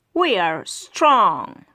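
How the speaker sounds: slow, proud mock roar; crocodile roar. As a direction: boast it like big proud crocs. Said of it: "roar the crocs".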